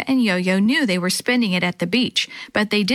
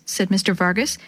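ordinary delivery

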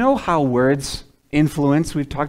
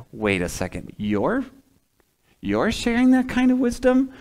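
disbelief; 8 semitones higher than usual. Retold or imitated. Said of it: "It's like".

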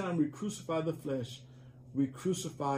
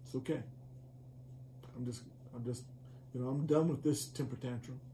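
much softer, giving up quietly; a hint of a tamed child sighing it off; resigned calm; 3 semitones lower, 7 dB quieter, faster than usual. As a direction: settle down after a tantrum. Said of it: "it'll just like".

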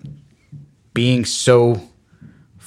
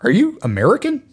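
French police officer; 9 semitones higher than usual. Retold or imitated. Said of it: "the guy in French was like".

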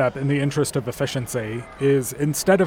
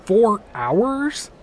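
incredulous; 6 semitones higher than usual. Acted. Shocked at wait.

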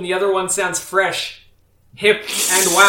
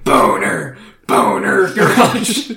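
announcer voice; 3 semitones lower, much slower than usual. Acted. Announcer-style show title.

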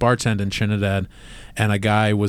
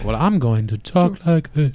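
higher mock-regal British voice; Queen's accent; 4 semitones higher than usual. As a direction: put on a posh royal accent. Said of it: "then the queen was like".

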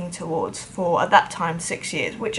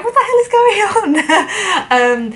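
higher, louder, slow laughing mock bewilderment; baffled bass player; 11 semitones higher, 6 dB louder, slower than usual. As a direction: play the stunned newcomer, half laughing. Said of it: "he probably came in and go".

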